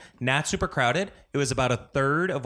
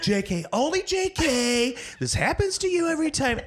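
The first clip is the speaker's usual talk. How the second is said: friend teasing; 13 semitones higher than usual. Retold or imitated. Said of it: "she's like".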